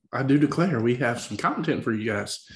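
hammed-up Southern accent; put-on Southern accent. Host promoting the show, put-on Southern accent. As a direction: keep up a playful Southern accent. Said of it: "the commitment to the accent".

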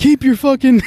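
mock angry yell, high and loud; angry warning. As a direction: replay a heated threat, close to laughing. Re-enacting his threat in the fight.

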